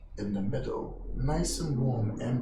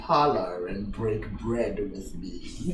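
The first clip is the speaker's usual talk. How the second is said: put-on measured, slightly lowered old man's voice; mysterious old host; 2 semitones lower, 3 dB louder than usual. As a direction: invite them in as a cryptic old host.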